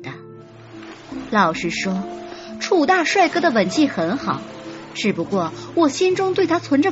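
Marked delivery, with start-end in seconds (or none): none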